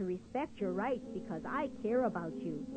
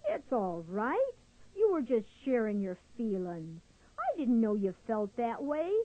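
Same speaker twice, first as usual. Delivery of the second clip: reassuring. Acted. Squirrel soothes crying Louis.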